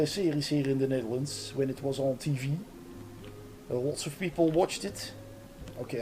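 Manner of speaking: hammed-up Dutch-accented English; English as a hopelessly Dutch speaker would say it; horrible Dutch accent. Shown as a demonstration. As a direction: lay the Dutch accent on thick, with lots of uhs. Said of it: "horrible Dutch accent".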